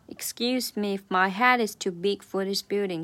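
head pushed out clearly; stress on head. Shown as a demonstration. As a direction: lean on the word head. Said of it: "这个head要重读出来".

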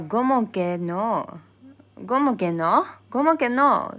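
loud, rising insistence on ¿Cómo que no?; strong insistence. Shown as a demonstration. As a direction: press harder each time. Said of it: "a little bit strong".

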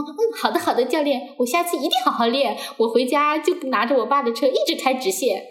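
high, meek voice of an obedient student; humble, eager compliance. Retold or imitated. Student promises the instructor to practise hard, humbly eager. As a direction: imitate yourself over-agreeing to please the coach. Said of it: "还是很卑微，".

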